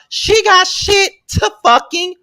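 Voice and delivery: high, slow, drawn-out exasperation; loud exasperated. Real, not acted. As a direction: stretch it out, fed up. Ranting about being busy.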